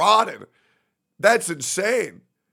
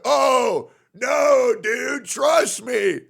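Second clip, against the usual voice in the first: higher, slow, shouted mock plea; mock insistent fan; 4 semitones higher, much slower than usual. Streamer mocking fans, high and drawn out. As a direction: plead it like a smug fan. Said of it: "these people are just like".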